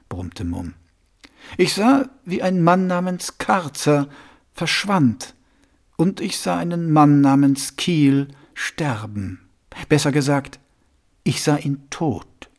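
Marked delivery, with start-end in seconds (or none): 1.6-12.5 lightly voiced suave patrician, a touch higher; sly, confiding ruler asking a pointed question; Vetinari voice.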